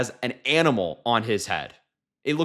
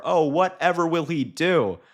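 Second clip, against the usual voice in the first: mock concern, higher and slower; a sarcastic, higher-pitched sigh of mock pity; 5 semitones higher than usual. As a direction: pretend to feel sorry for him, drawn out.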